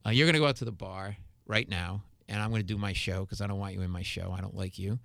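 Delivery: retold low-key stern warning; controlled ultimatum. Retold firm ultimatum to heckler.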